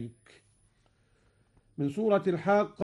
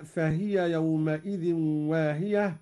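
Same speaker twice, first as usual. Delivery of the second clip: Quran recitation. Acted. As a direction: recite it with tajweed. Recites verse. (تلاوة مجودة)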